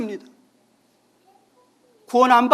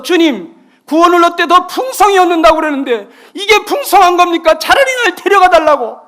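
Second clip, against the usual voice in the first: retold crying plea; 7 semitones higher, 12 dB louder than usual. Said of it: "그러면서 막 울었답니다".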